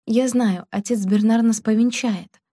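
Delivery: ordinary delivery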